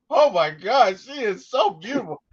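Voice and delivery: high-pitched smitten gushing; captivated. Retold or imitated. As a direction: relive being struck by her beauty. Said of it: "I was just captivated".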